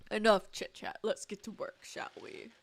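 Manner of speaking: smooth scheming villain, lightly voiced; a hint of a gloating mastermind. Villain closes the scene.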